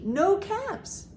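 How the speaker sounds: ordinary delivery, nothing marked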